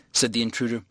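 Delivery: ordinary delivery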